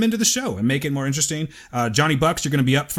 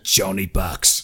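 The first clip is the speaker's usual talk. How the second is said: put-on English accent; 6 semitones lower, much slower than usual. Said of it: "can you do a little English accent for us".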